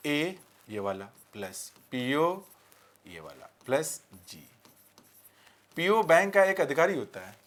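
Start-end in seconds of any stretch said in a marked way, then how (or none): 0.1-4.5 slow, with pauses between the pieces; slow piece-by-piece breakdown; broken into parts. Shown as a demonstration. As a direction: spell out each part slowly, letting it drop softer. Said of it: "मैं इसे break करूंगा".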